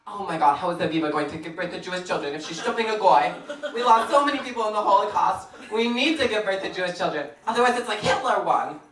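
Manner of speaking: fast, lightly voiced fretting aunt; imitating upset aunt. Aunt frets over her niece dating a non-Jew, mildly mocked upset. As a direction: rush it like a worried Jewish aunt. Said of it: "she was so upset".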